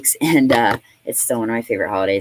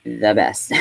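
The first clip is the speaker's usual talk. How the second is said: sarcastic. Acted.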